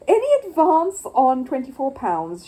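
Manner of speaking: loud slow auction call; pleased auctioneer calling out; auctioneer shouting. Acted. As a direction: call to the whole room. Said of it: "shouted the auctioneer".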